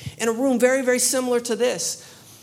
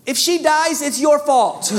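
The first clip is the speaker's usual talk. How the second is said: louder, half-laughing order to the crowd; joking command; 3 semitones higher, 6 dB louder than usual. Retold or imitated. Preacher tells the congregation to pray, laughing and loud. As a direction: pass the blame with a laugh. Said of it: "I said".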